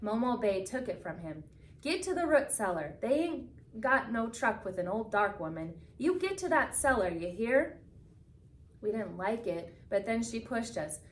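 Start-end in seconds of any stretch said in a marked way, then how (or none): 1.8-7.8 a lightly voiced old woman, urging hard; urgent old woman. Old woman urging kids to hide.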